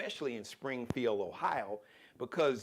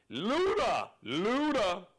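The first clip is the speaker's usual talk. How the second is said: hype call; 5 semitones higher, 5 dB louder, much slower than usual. Acted. Hyping up a rapper's name.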